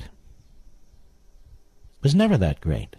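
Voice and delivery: slow, drawn-out mock of a politician; sneering slow-motion parody of the quote; mocking Andrew Cuomo. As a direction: drag each word out to ridicule him. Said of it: "And he talks like this".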